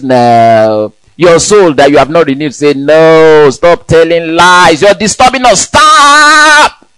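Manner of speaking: hammed-up flesh pushing back; body protesting. The body shouting at the believer to stop. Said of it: "Your body says".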